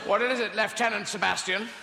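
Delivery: a hint of a clipped imperial officer; lightly voiced officer asking a subordinate; mock posh commander; posh British officer. Acted Death Star officers.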